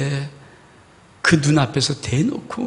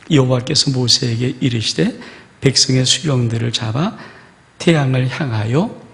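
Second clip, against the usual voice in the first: scripture reading; 3 semitones lower, 3 dB louder than usual. Acted. Reads scripture aloud.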